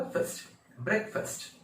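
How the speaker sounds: फर्स्ट as a short fust, then brek-fust; correct pronunciation. Shown as a demonstration. Teacher correcting the last syllable, short-vowel demonstration. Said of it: "ब्रेकफास्ट नहीं होगा".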